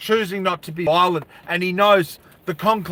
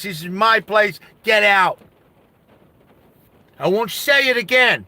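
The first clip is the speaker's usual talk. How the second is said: firm, raised-pitch order to clear off; stern warning; 4 semitones higher than usual. Acted. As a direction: stand up to them and send them packing. Stu orders gang to leave.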